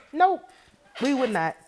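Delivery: loud, high, sharp denial; emphatic no. Real, not acted. Vlogger flatly rejecting the double standard, loud and high. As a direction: shut it down hard.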